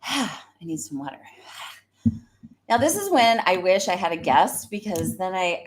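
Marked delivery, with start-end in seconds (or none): 0.0-1.2 breathless and softer after a sigh; winded from talking nonstop; out of breath. Real, not acted. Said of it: "I, like, run out of breath talking".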